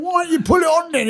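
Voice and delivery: very high put-on voice; cheeky squeaky punchline, laugh behind it; imitating a workmate. Workmate winding up a stranger about kettles, imitated high voice. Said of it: "this is how he talks".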